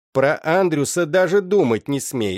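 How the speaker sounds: mother Agna forbidding her daughter, curt and loud; cut off sharply. Acted. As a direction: snap the order shut. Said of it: "отрезала Агна".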